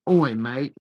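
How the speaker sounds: put-on Australian accent. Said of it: "when you do your Australian accent".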